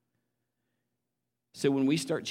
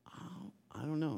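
put-on little boy voice; 5 semitones higher, 8 dB quieter than usual.

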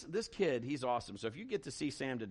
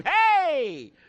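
loud, much higher hey; calling out; 14 semitones higher, 15 dB louder than usual. Retold or imitated. Tourist at Cedar Point hails loudly. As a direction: hail someone across the park.

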